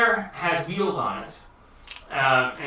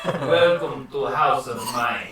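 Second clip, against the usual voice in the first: put-on Russian accent; 4 semitones lower than usual. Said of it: "He's Russian".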